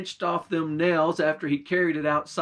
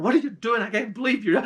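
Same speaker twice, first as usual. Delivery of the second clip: screaming and hollering; 6 semitones higher, 4 dB louder, faster than usual. Acted. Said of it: "she was screaming and hollering".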